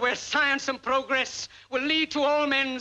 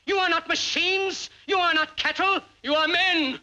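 building oratory; 4 semitones higher than usual. Acted. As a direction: build the list to a fiery climax. Climax of a rousing speech.

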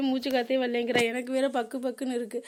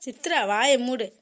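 slow, drawn-out telling-off; acted exasperated hush; stern scolding; 4 dB louder, slower than usual. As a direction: cut her off with slow, firm annoyance. Scolds Chitra to shut up.

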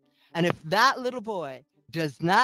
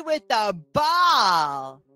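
mocking baby talk; 5 semitones higher, 4 dB louder, slower than usual. Mocking men's ball play.

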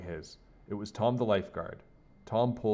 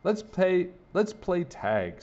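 higher, louder eager call; 9 semitones higher, 4 dB louder, much slower than usual. A narrator's reading. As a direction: urge them to play. Eager child.

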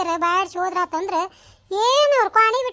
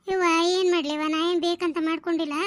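weak lament; 3 semitones lower, 4 dB quieter than usual. Acted. Fallen old woman laments.

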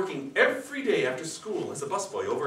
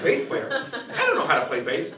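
surprised; 5 dB louder than usual. Acted. Surprised at the band offer.

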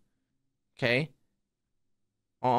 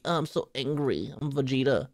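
mock angry Vegeta. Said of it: "And he's angry".

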